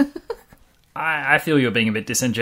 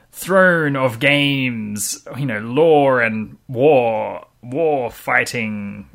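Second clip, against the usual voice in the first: trailer announcer voice; 4 dB louder, much slower than usual. Acted. Mocking generic game titles.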